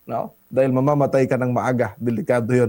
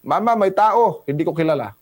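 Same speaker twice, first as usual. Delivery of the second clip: put-on child calling out; 3 semitones higher than usual. Pastor retelling a child at the door, mock childish shout. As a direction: call out to mama like a startled little kid. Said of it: "Sumigaw yung bata".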